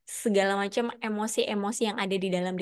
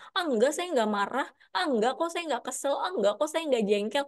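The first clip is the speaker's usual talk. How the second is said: higher, brushing-off denial; denying the feeling; 4 semitones higher than usual. Pretend. Someone denying they are annoyed, higher brushing-off denial. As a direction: dismiss the feeling with a quick shrug. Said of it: "emosinya nggak diakuin".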